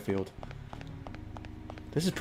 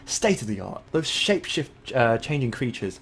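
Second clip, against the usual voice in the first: lightly put-on English accent, rising high at the end; a hint of hammed-up English accent; 5 semitones higher than usual. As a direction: read it out in a mock English accent. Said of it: "Should I just do an English accent".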